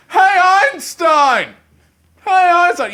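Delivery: high, drawn-out jeering call; mock bully shout. Bully hailing a nerd at the bus stop, taunting shout.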